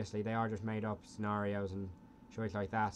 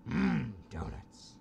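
Homer Simpson voice; much slower than usual. Pretend.

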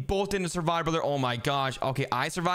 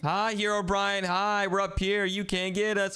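slow, higher-pitched teasing call; playful taunt; 5 semitones higher, slower than usual. Real, not acted. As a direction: taunt the monster from somewhere safe. Taunts monster from safe spot.

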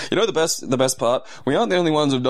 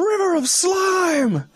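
much higher, slow, booming River of Slime; hammed-up movie shout; much slower than usual. Joking with co-host about Ghostbusters goo, hammed-up slow high shout. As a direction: belt it out like a cheesy movie trailer.

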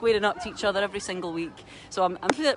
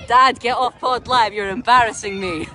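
laughing mock protest; 6 dB louder than usual. Daughter answers dad's comment, laughing.

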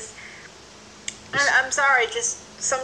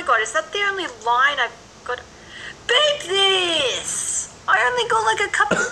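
hammed-up angry shout, higher and louder; mock outrage; 6 semitones higher, 3 dB louder than usual. Actor mock-shouting over having only a couple of lines. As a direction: fake a furious rant about getting few lines. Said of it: "I'm kidding".

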